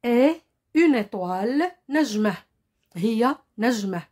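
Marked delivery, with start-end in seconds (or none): 0.0-1.7 "اي" as a short closed French é, then "إيطوال". Shown as a demonstration. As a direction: begin "إيطوال" on a brief closed é. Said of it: "طريقتها في النطق قصيرة".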